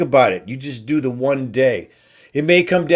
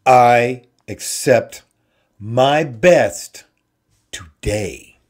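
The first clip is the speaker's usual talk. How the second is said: slow drowsy self-assurance drifting off; sleepy bedtime affirmation; 3 semitones lower, much slower than usual. Shown as a demonstration. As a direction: murmur it as if your head is on the pillow. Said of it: "you lay down and you go".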